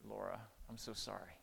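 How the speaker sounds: soft, low, remorseful father; tender apology. Retold or imitated. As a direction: gently apologize to your daughter. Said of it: "But instead I said".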